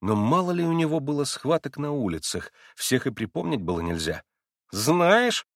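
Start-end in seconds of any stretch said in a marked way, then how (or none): 4.7-5.5 ironic. Acted. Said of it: "иронически спросил он его".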